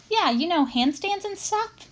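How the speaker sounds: a hint of a pushy older boy coaxing; mild coaxing kid voice; Paul's voice. Older kid Paul pressing.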